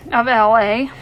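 barely holding in a laugh; cracking up. Real, not acted. Reader breaks up over the line, real laughing. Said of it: "Sorry about that".

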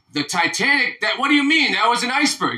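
high-pitched baffled protest; acted incredulity. Jewish guy in a joke questions the Titanic excuse, incredulous. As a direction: climb high in mock disbelief.

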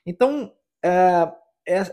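normal talking voice

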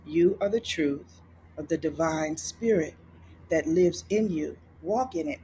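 soothing voice. Retold or imitated. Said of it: "it was very soothing".

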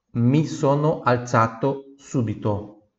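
Mi sono alzato subito said slowly; slow line for repetition; slow model. Shown as a demonstration. Teacher says it slowly for students to repeat. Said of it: "Repita em voz alta".

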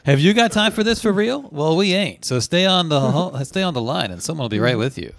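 bright high recorded announcement voice; mock hold recording. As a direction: read it like a cheesy phone menu.

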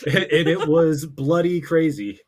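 put-on American accent leaning hard on British slang; American doing British slang. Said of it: "American man just using, like, British slang".

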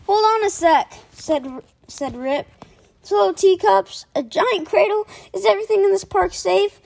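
high, loud indignant protest; dismayed disbelief. Acted. Boy realising every ride is tame, dismayed.

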